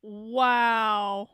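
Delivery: breathless whispered wow. Real, not acted. Streamer stunned by the clip, a whispered wow. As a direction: let the wow come out as only breath. Streamer reacts after screenshot.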